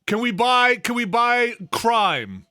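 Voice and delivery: high-pitched, eager boss voice; hammed-up executive brainstorm, pitched high; mock scheming executive. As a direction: pitch an absurd buyout in earnest. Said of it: "somebody's like".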